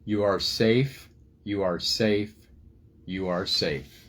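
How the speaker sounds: slow, soothing repetition that settles at the end; calming voice. Acted. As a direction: lull frightened friends back to calm. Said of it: "her calming voice flowed".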